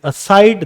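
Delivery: slow "aside" as a-SIDE; second-syllable stress. Shown as a demonstration. Teacher lists examples, "aside" stressed on its second syllable. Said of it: "second syllable पे stress आप use कर रहे हैं".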